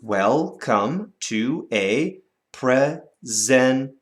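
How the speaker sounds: slow, each syllable spaced out; slow syllable count. Shown as a demonstration. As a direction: spell out the beats slowly. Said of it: "How many syllables did you hear?".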